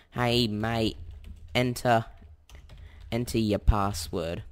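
put-on slow, drawn-out broad Aussie accent; exaggerated Aussie accent. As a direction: lay the Australian accent on thick, slowly. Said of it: "exaggerated Aussie accent".

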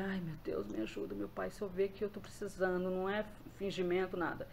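softly imitating an anxious plea to God; quiet, understated nervous pleading; retold nervous prayer. Nervous caller retelling her plea to God before phoning, softly anxious. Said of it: "tava nervosa".

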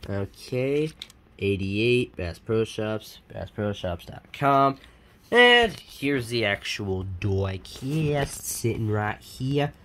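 slow, drawn-out mock accent; drawled words in a silly accent; odd put-on accent. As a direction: slip into a goofy unplaced accent. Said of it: "I don't know where the accent was".

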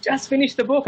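high, mock-pleading plea; exasperated Joe. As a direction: imitate the friend begging him to stop. Joe pleading to finish book.

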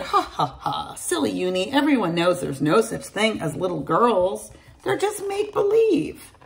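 light teasing laughter from the other unicorns; mocking laugh. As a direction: laugh it off, playfully dismissive. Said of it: "Uni's friends laughed and said".

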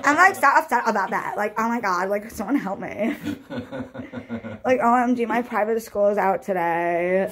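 mock a spoiled rich girl crying for help, through laughter; hammed-up rich girl meltdown; rich girl parody. Parodying a rich girl's complaints.

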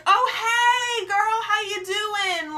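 high, stretched, overdone hello; fake enthusiastic greeting. Fake casual greeting while hiding tag.

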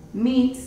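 "Meat" clear and stressed with long ee. Shown as a demonstration. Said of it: "E A suena como I". ("Meat" con i larga y firme)

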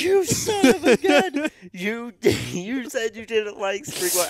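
very high, loud, slow outraged yell; mock losing it. Friend finally asking for the spring water, loud outraged high yell. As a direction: blow up at him, gleefully outraged. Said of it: "Luke lost his mind on me".

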